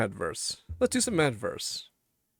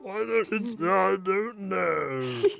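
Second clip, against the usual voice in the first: lightly voiced frog puppet; slow, a hint of Kermit; 3 semitones higher, much slower than usual. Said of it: "Kermit the Frog voice".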